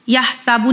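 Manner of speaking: "यह साबू" with a long aa in सा; wrongly long vowel. Shown as a demonstration. Teacher showing what not to read, "यह साबू" with long aa. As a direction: stretch सा in "यह साबू". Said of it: "नहीं पढ़ना है".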